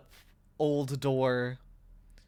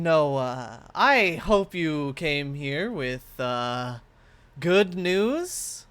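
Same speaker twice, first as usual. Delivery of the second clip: loud, higher, drawn-out spirit patron; imposing spirit voice; 5 semitones higher, 8 dB louder, slower than usual. Acted. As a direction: speak as a grand magical being. GM voices the statue figure.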